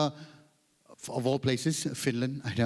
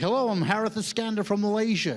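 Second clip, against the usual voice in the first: higher mock American greeting; adapted American accent; 5 semitones higher than usual. Comedian introducing himself to the American organizer, copied American accent. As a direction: introduce yourself with a put-on American tune. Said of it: "Suddenly we adapt".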